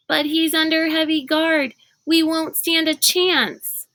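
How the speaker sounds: high and anxious, slowing down; taken aback. A narrator's reading. Sticky objects to Kate's plan, alarmed and high. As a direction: voice rising in alarm. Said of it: "Sticky was taken aback".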